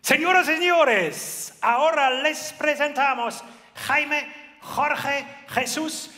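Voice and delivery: booming high ring announcer, drawn out; lucha libre announcer. Shown as a demonstration. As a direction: hype the crowd like a wrestling MC. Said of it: "Das zeige ich euch jetzt mal".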